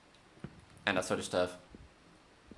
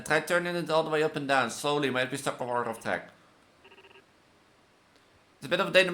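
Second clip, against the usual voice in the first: lively, higher than own chat; reading game dialogue; 6 semitones higher than usual. Acted. Support agent helping a caller, acted dialogue read-aloud. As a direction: voice the tech support call.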